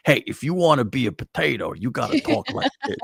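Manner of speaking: mock potato-man impression; Stuttering John's potato voice. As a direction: imitate a talking potato, pitch rising toward the end. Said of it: "an impression of what he thinks a potato sounds like".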